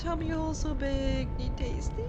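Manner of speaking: high, loud, slow, whiny little creature; big-eyed hungry ghost pleading for food; hungry monster voice. Acted. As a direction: beg like a starving spirit. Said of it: "I don't know why I'm saying it like that".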